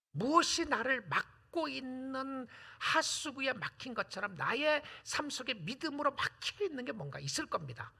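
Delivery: ordinary delivery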